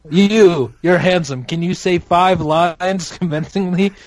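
hint of a talent scout auditioning an actor; casting director. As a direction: pick someone out with an emphatic "you". Acts out a casting call.

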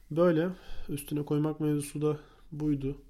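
a bit sick, stuffy nose; talking through a head cold. Real, not acted. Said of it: "Biraz hastayım".

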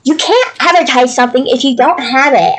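a hint of an annoyed shopper; pissy customer. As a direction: retell her irritated lecture with a light edge. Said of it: "being pissy at me".

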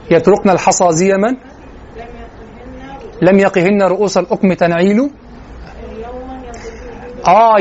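measured classical Arabic verse recital; poetry recitation. Acted. Recites classical poem from memory.

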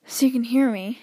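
audible breathing between words; heavy breathing. Shown as a demonstration. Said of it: "That one was just for show".

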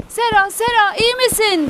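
restrained worried call; worried shout. A narrator's reading. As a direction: call her name anxiously, pitched high. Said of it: "diye bağırdı".

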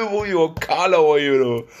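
high, loud burst of laughter; cracking up mid-sentence; laughing hard. Real, not acted. Laughing fit after joke. (lachend, laut und hoch)

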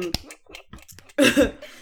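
loud cough; coughing fit. Real, not acted. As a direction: cough hard. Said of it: "Mais, euh".

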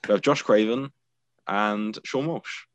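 put-on host in a British accent naming the co-hosts. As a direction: keep the British accent going as you name the co-hosts. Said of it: "still doing it in a British accent".

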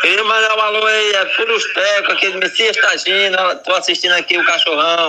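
thin phone-line voice; over the phone. Real, not acted. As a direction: sound like a caller on the line. Caller speaking by phone. (voz de telefone)

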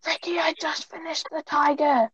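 hushed, breathy words; whispering on the phone. Real, not acted. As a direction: keep it to a whisper. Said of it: "Why are you whispering".

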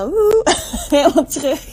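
bursting with new energy, laughing; a happy little whoop, then a laugh; excited. Real, not acted. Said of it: "je merkt het al aan me". (enthousiast met een lach)

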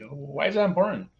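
mock clueless question; acting dumb. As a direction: play dumb, as if you truly don't get it. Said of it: "I'm gonna act dumb here".

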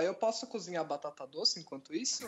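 talking while eating; words round a bite of food; mouth full. Real, not acted. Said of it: "eu tô comendo".

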